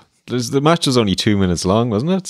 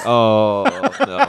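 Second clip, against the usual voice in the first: mock panic. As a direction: squeal it like a scared wrestler. Mocking Benoit's panic.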